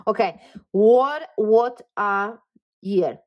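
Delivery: loud, slowed exclamation of amazement; amazed and excited. Real, not acted. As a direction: stretch it out, marvelling at the reading. Reader amazed by the spread.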